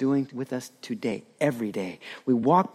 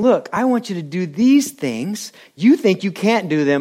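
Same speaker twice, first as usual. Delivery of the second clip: voicing the Lord; 5 semitones higher, 6 dB louder than usual. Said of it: "The Lord is saying".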